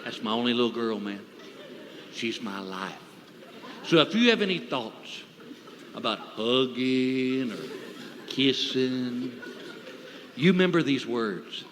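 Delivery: low, hushed, threatening murmur; quiet, low protective-father threat; menacing whisper. Acted. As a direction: lean in close and warn him very quietly. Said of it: "I'm gonna whisper in his ear".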